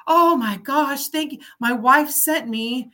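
a hint of a flustered elderly man; elderly gentleman thanking a helpful stranger; grateful old man.

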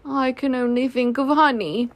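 mildly mournful bear; a touch of sorrow, lightly voiced; sad Pooh. Pooh with no honey to offer, mildly sad. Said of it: "said Pooh sadly".

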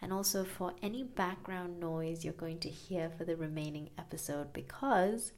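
recorded in a small tiled bathroom; roomy echo around the voice. Real, not acted. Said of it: "I am recording in my bathroom".

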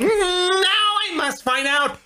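high, fussy voice of a rule-following tourist; mock uptight American asking a subway worker how to buy a ticket; prissy law-abiding American. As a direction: play the timid, overly polite American asking for help.

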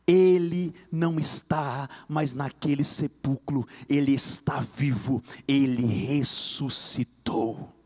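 slow, low, deliberate proclamation; solemn proclamation. Real, not acted. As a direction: declare it slowly as the heart of the sermon. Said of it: "em alto e bom som". (proclamação solene e lenta)

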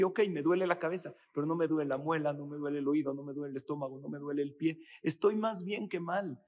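quick, brisk and cheerful, counting blessings; a grateful speaker, positive and quick; upbeat acceptance. Retold or imitated. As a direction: shrug it off with a bright upbeat tone.

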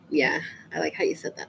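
hushed aside; whispering. Acted. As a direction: whisper it teasingly. Teasing whisper about friend's phrasing.

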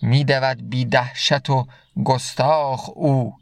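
slow, measured reading of Rumi's verse; slow verse recitation. Acted. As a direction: recite the couplet slowly, letting each word land. Recites Masnavi verse slowly. (شعرخوانی آرام و شمرده)

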